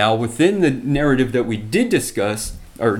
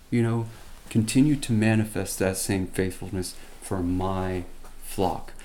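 softer, gentle reassuring voice; comforting God; 5 dB quieter than usual. Retold or imitated. Preacher voicing God comforting David, soft and reassuring. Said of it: "God comforts him and says".

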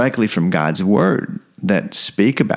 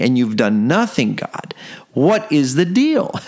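exasperated plea, the last question jumping higher; mock-frustrated Paul, cut short and exasperated; Paul complaining to God; 4 semitones higher than usual. Paul complaining to God that nothing changed, exasperated. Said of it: "is complaining in a way".

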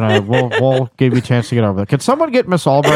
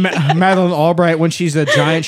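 ordinary talk, nothing marked

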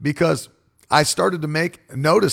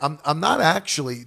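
ordinary talk

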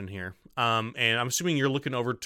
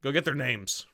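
louder, higher urgent command; shouted order; 3 semitones higher, 3 dB louder than usual. Acted. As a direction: bark it down the corridor at the others. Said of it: "you hear one of them say".

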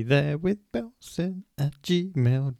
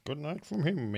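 Two Ronnies sign-off; 4 semitones higher, 5 dB quieter, slower than usual. Retold or imitated. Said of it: "It's the two Ronnies".

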